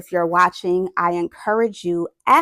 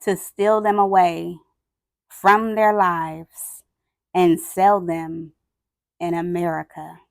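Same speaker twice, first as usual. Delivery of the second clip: grave picture-book reading with long pauses; measured, sombre storytelling; solemn story narration. A narrator's reading. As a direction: read it aloud gravely, letting each phrase hang. Reads picture book aloud.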